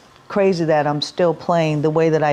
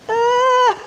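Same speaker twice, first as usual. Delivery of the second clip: overwhelmed gasp; 3 dB louder than usual. Retold or imitated. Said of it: "and then you're just like".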